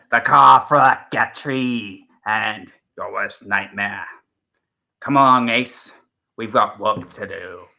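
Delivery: a fan's hammed-up, mild take on the Seventh Doctor; Sylvester McCoy impression. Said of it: "I can do an impression of him".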